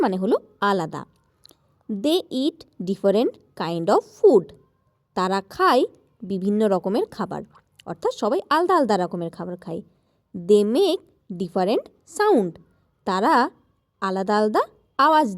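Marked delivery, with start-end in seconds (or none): 1.9-4.5 slow, careful textbook reading; slow read-aloud English. Shown as a demonstration. Teacher reading the lesson to children, slow and careful. Reads English text slowly. 10.5-12.5 slow, careful textbook reading; slow read-aloud English. Shown as a demonstration. Teacher reading the lesson to children, slow and careful. Reads English text slowly.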